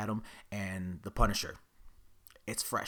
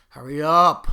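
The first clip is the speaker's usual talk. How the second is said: a sudden loud, higher burst of hurry up; impatient yell; 6 semitones higher, 16 dB louder, slower than usual. Retold or imitated. Waiting for the employee, a loud impatient burst. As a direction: snap at the slow shopper to hurry.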